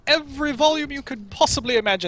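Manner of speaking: lightly acted doting mayor, rising with enthusiasm; a hint of a stately mayor, lively pitch swings; proud mayor. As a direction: read it as a proud father showing off his city. Reads the proud mayor's lines.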